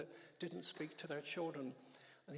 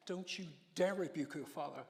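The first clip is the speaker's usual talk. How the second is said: mild imitation of a teacher's stern telling-off; scolding teacher; 4 dB louder than usual. God rebuking a son at breakfast, as a mildly scolding teacher. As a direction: retell a scolding, firm but stopping short of screaming. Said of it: "a teacher screaming in my ear".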